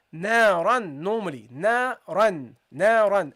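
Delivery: na run slow with held n; nasal tanween. Shown as a demonstration. Teacher demonstrating tanween reading to students. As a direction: stretch the n in na run. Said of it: "so you say here".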